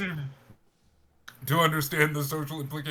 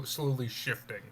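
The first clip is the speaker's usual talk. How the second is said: whispering; 3 semitones lower, 9 dB quieter than usual. A narrator's reading. Narrator hushes for eerie detail.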